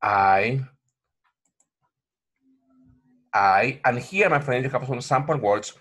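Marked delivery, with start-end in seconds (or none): 0.0-3.8 "I" glided slowly from open to close; diphthong demo. Shown as a demonstration. Teacher modeling the diphthong, slow and clear. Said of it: "Okay, look".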